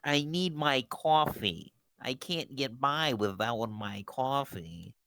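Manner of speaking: slow, lightly hammed-up pleading; mock pleading customer. Pretend customer begging the barista, slow and pleading. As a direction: drag it out like a needy customer.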